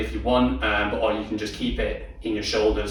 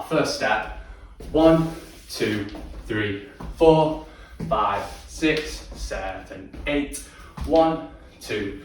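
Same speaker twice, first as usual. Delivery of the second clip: loud count-through; 3 semitones higher, much slower than usual. Shown as a demonstration. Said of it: "take us through from the very start".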